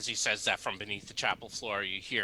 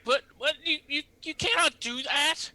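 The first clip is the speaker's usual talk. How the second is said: panicked priest; 6 dB louder than usual. Acted.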